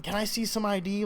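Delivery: stern cop demand. Retold or imitated.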